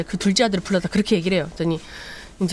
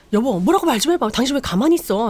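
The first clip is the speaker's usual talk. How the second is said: louder, higher prodding; pushy wife; 4 semitones higher, 3 dB louder than usual. Retold or imitated. Wife pushing husband to speak up, exasperated. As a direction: nag him to speak up.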